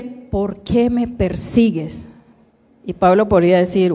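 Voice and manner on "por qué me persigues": slow, measured reproach; lightly acted question, drawn out word by word; Jesus questioning Saul. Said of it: "Y aquí le dice".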